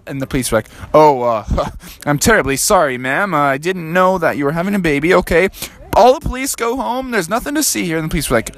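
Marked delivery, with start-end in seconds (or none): 0.9-5.5 lightly voiced apologetic officer; hesitant, halting apology with a small laugh; sheepish cop. Police apologize to pregnant mom, mildly sheepish. 5.9-8.0 high, calling-out announcement; police officer. Acted. Officer sends other police home, high call.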